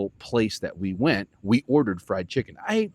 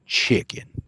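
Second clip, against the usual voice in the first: low, breathy one-word reply; just say it, dead serious; imitating Nacho's flat reply; deadpan answer; 4 dB louder than usual. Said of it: "he goes".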